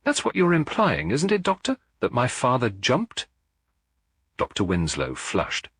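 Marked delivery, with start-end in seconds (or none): 0.0-3.3 higher, sharp accusing voice; cutting accusation. A narrator's reading. Son accuses the doctor about his father, sharp and accusing. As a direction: cut through the room like a knife. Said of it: "his voice cutting through the room like a knife".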